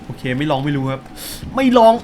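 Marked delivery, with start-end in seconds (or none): 1.6-1.9 high, loud nervous squeal; psyching himself up in a panic; shrieking "try it to know"; excited yelp. Real, not acted. Jumping off in horror game.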